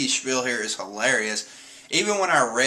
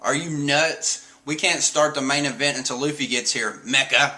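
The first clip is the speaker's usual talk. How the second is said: mild Franky retort. Retold or imitated. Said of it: "And he's like".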